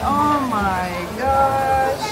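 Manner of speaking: high and loud, startled delight; excited shout. Real, not acted. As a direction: call out the snake, then gasp it slowly. Spotting a snake.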